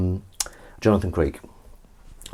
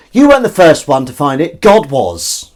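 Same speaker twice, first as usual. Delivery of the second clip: put-on louder, higher kid's call; raised-voice retort, mimicked; retold shout; 5 semitones higher, 7 dB louder than usual. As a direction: imitate a child calling out across a garden. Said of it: "one of them shouted from the bottom of the garden".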